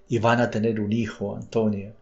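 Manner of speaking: put-on a beaten man whispering a confession like a child; a touch of a sob, voice dropped. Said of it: "bajando la voz como un niño, casi balbuciendo".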